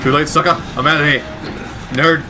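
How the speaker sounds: mock gloating getaway jeer; playful taunt. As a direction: toss a playful jeer back at the pursuer. Taunting the enemy while escaping.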